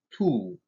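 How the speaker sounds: "ту" with a hard, back oo; hard vowel. Shown as a demonstration. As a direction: keep the у in "ту" hard. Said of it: "твёрдое". (твёрдое «у» в слове «ту»)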